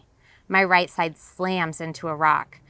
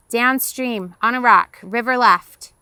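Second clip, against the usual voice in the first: higher, loud directions called out; shouted answer; 5 semitones higher, 7 dB louder than usual. Acted. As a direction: shout your position over the water. Shouted answer across river.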